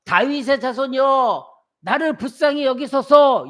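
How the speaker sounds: a mother crying out for her daughter; desperate plea. Retold or imitated. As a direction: plead with your life at stake. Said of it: "자기가 생명 걸고".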